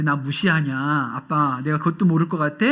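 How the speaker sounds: mock indignant. Daughter retorting to her dad, lightly voiced mock indignation. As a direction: play the daughter acting insulted. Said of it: "그런 투로".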